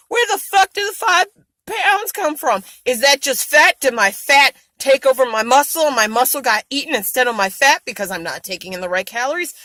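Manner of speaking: exasperated outburst. Real, not acted. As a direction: throw up her hands at the numbers. Frustrated rant at weight gain.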